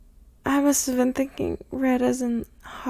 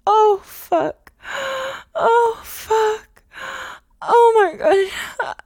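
moans rising higher and louder; climbing moans; 5 semitones higher, 6 dB louder than usual. Acted. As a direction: let it build, crying out. Pleasure building toward climax.

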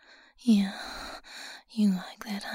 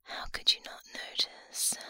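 ordinary delivery

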